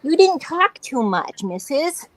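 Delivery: high, teasing pet scolding; mock chiding pet talk. Owner teases her shy cat, lightly high pet voice.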